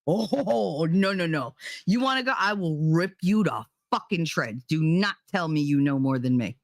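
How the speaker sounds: a self-parody of blowing up; playing my own outburst at the know-it-all; mocking myself angry. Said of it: "That's me going".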